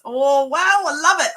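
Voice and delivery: genuinely excited squeal of delight; real delight. Real, not acted. Opening new papers, delighted.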